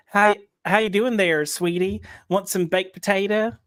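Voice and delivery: put-on Southern accent. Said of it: "I don't know why I throw a Y in there".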